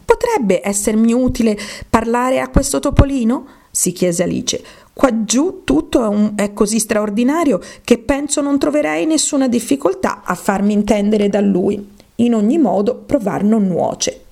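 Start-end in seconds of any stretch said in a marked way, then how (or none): 0.0-3.5 lightly voiced, higher questioning Alice; character voice, pondering; Alice, wondering. 4.9-14.2 lightly voiced Alice talking herself into trying; mild wonder in a higher character voice.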